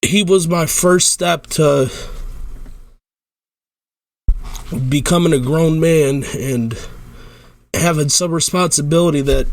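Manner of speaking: choked-up tribute to his dog; real crying. Real, not acted. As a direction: fight to get each phrase out. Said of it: "start fucking crying".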